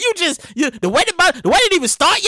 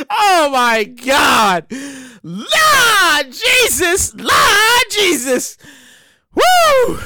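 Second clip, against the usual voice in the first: drawn-out exclamation; much slower than usual. Real, not acted. Host calling out to the Lord over the story. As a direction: stretch it out like a cry to heaven. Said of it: "In Full Effect".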